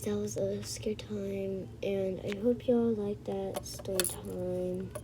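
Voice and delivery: slow soft whisper. Real, not acted. Whispering the story-time sign-off to viewers. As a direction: breathe the sign-off slowly.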